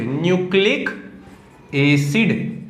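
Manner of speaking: "Nucleic", pause, then "acid"; slow dictation. Shown as a demonstration. Teacher dictating DNA's full form to students, slow dictation.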